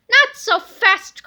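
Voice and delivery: loud, slow, drawn-out cry; slow shouted warning; cried out. A narrator's reading. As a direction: stretch it out like a villain's shout. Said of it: "cried Big Tippy".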